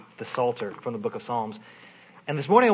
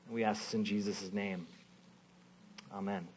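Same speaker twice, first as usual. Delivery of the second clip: prayer. Acted. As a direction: pray gently, slowing the room down.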